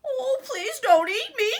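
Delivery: high frightened wail; pleading cry. Acted. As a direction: beg for your life. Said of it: "cried Middle Billy Goat Gruff".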